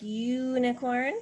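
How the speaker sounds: slow "unicorn" with a drawn-out "yoo"; long U. Shown as a demonstration. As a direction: linger on the first vowel of "unicorn". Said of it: "the long sound is".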